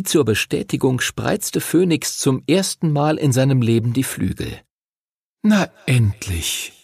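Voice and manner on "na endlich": put-on slow, drawn-out young dragon; dragon teasing. A narrator's reading. Young dragon teases Henry for arriving late. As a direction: tease him for being late. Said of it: "sagte er".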